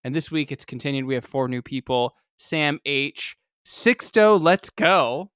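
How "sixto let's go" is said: excited shout-out. Real, not acted.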